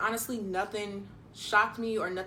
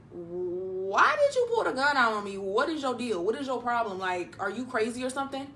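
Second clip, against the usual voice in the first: confronting. Retold or imitated. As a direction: demand an explanation, mildly worked up. Retold phone confrontation of gunman.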